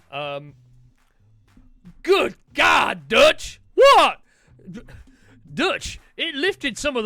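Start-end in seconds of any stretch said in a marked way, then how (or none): 2.0-3.6 startled shout of alarm; good God shouted in shock; shocked cry. Acted. Alarm at the power washer. 3.7-4.2 high, loud startled what; a sharp confused what. Acted. Sudden confused reaction.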